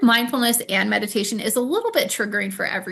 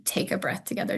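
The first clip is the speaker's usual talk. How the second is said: soft breathy cue; 2 semitones lower, 6 dB quieter, faster than usual. Real, not acted. Leading a group breath.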